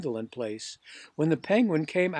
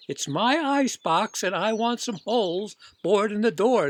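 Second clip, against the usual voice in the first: insistent demand; 5 semitones higher, 5 dB louder than usual. Acted. Popper insists on holes bored.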